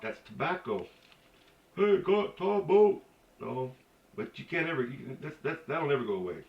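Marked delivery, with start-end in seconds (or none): 1.8-3.0 high, slow call; mimicking local folks. Local calls out for tobacco, mimicked high and slow. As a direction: drawl out a high-pitched ask.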